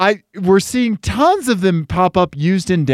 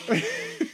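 blowing nose; 12 dB quieter than usual. Real, not acted.

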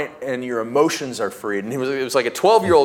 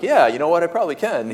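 confident yes; 6 semitones higher, faster than usual. Retold or imitated. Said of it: "he was like".

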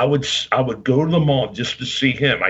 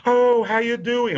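high-pitched imitated greeting; Lord Alfred Hayes; 11 semitones higher than usual. Wrestler greeting a fan's mother, imitated in a high voice. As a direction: mimic his high voice saying hello. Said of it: "And he goes".

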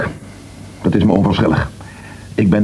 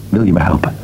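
whispered plea; 4 semitones lower than usual. Acted. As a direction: whisper it, almost afraid to ask. Pleading plea between two people. (fluisterend smeken)

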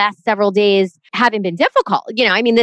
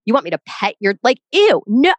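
repulsed. Retold or imitated. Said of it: "I am, like, repulsed".

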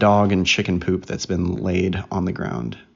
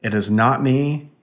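mock accusing passengers; 3 semitones higher, slower than usual. Parent acting out everyone in the car, mock accusing. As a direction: stretch a high, incredulous "who". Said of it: "And everybody's going".

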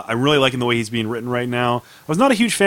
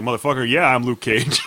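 cocky Luke Cage. Retold or imitated. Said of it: "is very cocky".

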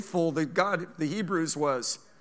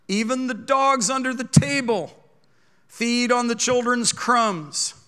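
earnest plea; 6 semitones higher, 5 dB louder, slower than usual. Acted. Woman pleading with Jesus.

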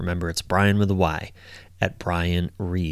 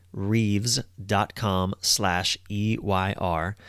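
slow and deliberate, each letter spaced out; careful dictation pace; slow, spelled-out URL; 4 dB quieter, much slower than usual. Shown as a demonstration. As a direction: read the web address slowly so listeners can write it down. Spelling out the website address.

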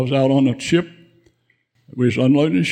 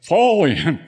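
a mild mock shout of a military command; lieutenant snapping awake and calling the squad, mild mock holler; retold holler; 4 semitones higher, 3 dB louder than usual. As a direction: bark it like a lieutenant calling the squad, only half-voiced. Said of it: "and he hollered".

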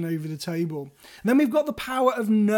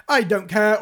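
abrupt; 5 dB louder than usual. Retold or imitated. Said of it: "you're very abrupt".

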